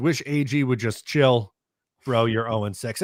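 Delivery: normal talking voice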